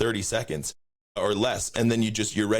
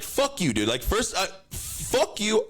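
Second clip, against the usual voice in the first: mock high insult; 11 semitones higher, slower than usual. Cursing out the taco guy.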